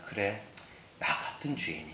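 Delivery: low, hushed admission of unworthiness; humbled. Acted. A believer standing before the Lord, humbled and quiet. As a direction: drop right down, soft and humble. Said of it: "겸손할 수밖에 없어요".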